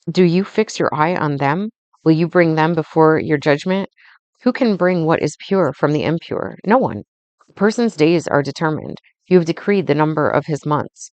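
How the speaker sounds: steady, measured Bible reading; solemn reading of Job's plea; scripture reading. Acted. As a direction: read the verses aloud with even weight. Reads Job passage aloud.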